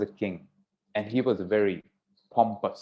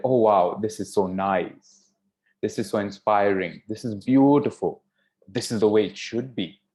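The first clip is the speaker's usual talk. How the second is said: gushing praise; 4 dB louder than usual. Retold or imitated. Sharing a post with followers, gushing admiration. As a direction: imitate someone gushing over a post. Mimicking gushing social media sharer.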